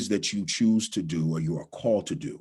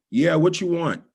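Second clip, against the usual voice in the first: rude waitress; 8 semitones higher, 4 dB louder than usual. Retold or imitated. Rude waitress voiced in story.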